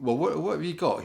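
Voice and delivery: hammed-up boss demanding answers; mock boss. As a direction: bark it out as the impatient boss. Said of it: "your boss would say".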